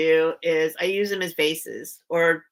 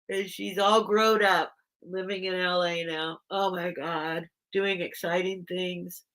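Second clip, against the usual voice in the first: tearful; 3 dB quieter than usual. Real, not acted. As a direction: trail into quiet, wistful weepiness. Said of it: "now I'm crying".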